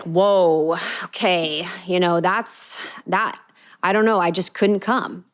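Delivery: a hint of flustered defensiveness; defensive. Friend dodging blame for missing a birthday, mildly defensive. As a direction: brush it off, slightly rattled. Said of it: "The voice of someone who's defensive".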